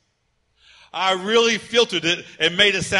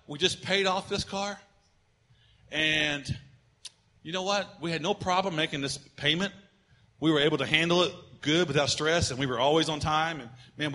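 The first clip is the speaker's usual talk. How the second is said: much softer, calm self-talk; quiet reasoning; 5 semitones lower, 7 dB quieter than usual. Retold or imitated. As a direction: talk it through softly to yourself. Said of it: "if I say".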